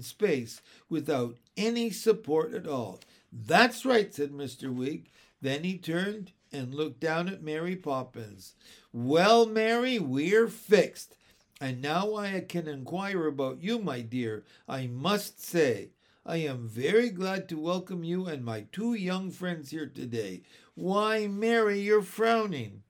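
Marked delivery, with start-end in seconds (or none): 3.3-4.1 high, loud cheerful approval; cheery uncle. Acted. Uncle approving Jane, lightly voiced cheery uncle. 8.9-22.8 put-on higher, louder jolly old man; jovial uncle. Uncle greeting Mary Poppins, lightly voiced jovial uncle.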